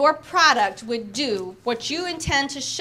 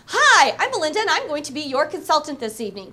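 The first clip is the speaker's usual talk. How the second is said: confident, louder Hi; strong opening; 3 dB louder than usual. Shown as a demonstration. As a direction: open strong like a horse out of the gate. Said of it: "till you get the one that's strong".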